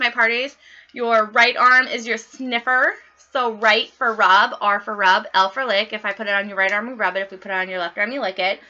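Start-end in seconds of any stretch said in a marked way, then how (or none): 3.3-5.9 slowed mnemonic. Shown as a demonstration. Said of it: "I will slow that down for you".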